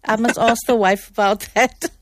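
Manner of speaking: teasing through a laugh; a laugh running into the words; amused teasing. Real, not acted. Cohost teasing the sheikh about his wife, laughing. Joking banter after laughter.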